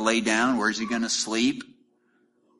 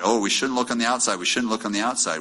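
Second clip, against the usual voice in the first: mock pious; faster than usual. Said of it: "we've emphasized a lot".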